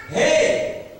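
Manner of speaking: high call up to the king; acted shout. Daniel in the den answers the king, shouting. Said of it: "E aí Daniel grita".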